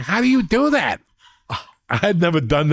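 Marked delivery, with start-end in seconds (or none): 0.0-1.0 high incredulous question; baffled friend. Retold or imitated. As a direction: play him totally baffled. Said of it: "And he's like".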